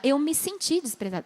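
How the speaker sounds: quiet, non-accusing version; gentle. Shown as a demonstration. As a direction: say how you felt, softly. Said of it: "Você vai falar".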